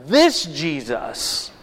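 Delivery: slow, leaning hard on "This"; "This" drawn out and pressed; stress on This. Shown as a demonstration. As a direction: punch "This" as the emphatic pronoun. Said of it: "a emphatic pronoun".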